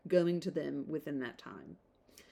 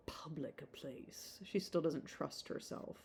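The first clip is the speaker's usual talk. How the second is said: whispered aside; 10 dB quieter than usual. Real, not acted. Aside about Marianne.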